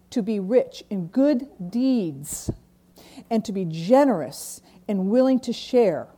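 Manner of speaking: measured reading of a Bible passage; scripture reading. Acted. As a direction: read the verses to the congregation with weight. Reads Scripture aloud.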